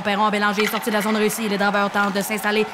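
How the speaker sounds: brisk commentator building to a long goal shout; hockey play-by-play. Pretend. Mock hockey announcer for viewers, building to a goal shout. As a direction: call the game like a TV announcer, then explode on the goal. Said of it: "inquiétez-vous pas, ce sera pas ça tout le long".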